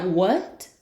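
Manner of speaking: high, loud mock confusion; straining to hear. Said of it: "it's like".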